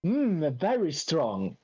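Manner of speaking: slow, drawn-out appreciative hum; imitated hairdresser. Hairdresser massaging customer's head, slow imitated approval. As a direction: savour the words slowly, in imitation.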